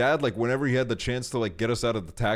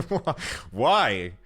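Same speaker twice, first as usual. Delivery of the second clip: asking why through a laugh. Retold or imitated. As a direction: laugh it out, puzzled. Laughing at dad's sugar idea.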